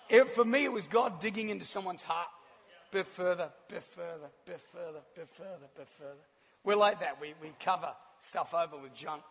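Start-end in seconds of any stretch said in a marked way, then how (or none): 2.9-6.2 each repeat softer and lower; fading to a hush. Shown as a demonstration. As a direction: sink away into near silence. God digging deeper into hearts.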